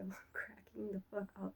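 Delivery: hushed, breathy through a laugh; whispered laugh. Real, not acted. To viewers, remembering her own posts, whispered through laughter. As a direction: let it slip out under a giggle.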